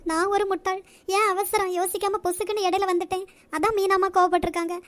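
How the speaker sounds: distressed, self-blaming plea; tearful apology. Acted. Maid begs her mistress's forgiveness after the scolding, tearful. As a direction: plead for forgiveness through tears. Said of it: "முதல்ல அழுறத நிப்பாட்டு".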